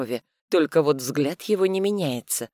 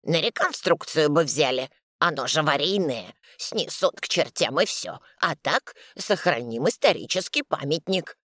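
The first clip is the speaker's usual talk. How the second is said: proud. Acted. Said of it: "гордо рассуждает".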